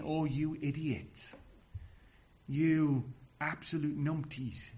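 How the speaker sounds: slow, exasperated scolding; acted, drawn-out exasperation. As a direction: drag the words out in exasperation. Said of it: "because he is exasperated".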